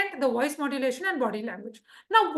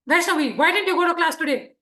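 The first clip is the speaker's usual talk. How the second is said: firm, a touch louder principal; authoritarian principal; 5 dB louder than usual. Shown as a demonstration. Principal questions a student who skipped class, firm. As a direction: scold her like a stern principal. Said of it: "A principal is going to be more authoritarian".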